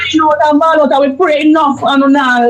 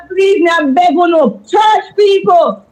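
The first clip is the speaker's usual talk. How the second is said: impassioned, higher-pitched plea; pleading; 4 semitones higher than usual. Real, not acted. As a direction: beg them urgently, raising your voice. Begging church people to act.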